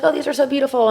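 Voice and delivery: gushing over flowers. Retold or imitated. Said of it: "She's like".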